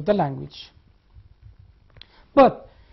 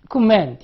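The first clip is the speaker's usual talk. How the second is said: comment with the second syllable stressed; 3 semitones higher, 5 dB louder than usual. Shown as a demonstration. Teacher confirming a student's answer, stress on the second syllable of comment. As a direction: lean on the end of comment. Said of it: "Both of you are correct".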